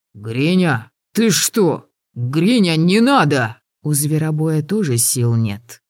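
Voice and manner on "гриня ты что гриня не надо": terrified pleading. Acted. Vasya begs for his life.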